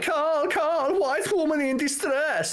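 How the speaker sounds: shrieky-high mock Romanian call for help; high-pitched, put-on Romanian accent; thick Romanian accent. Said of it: "like, Romanian accent".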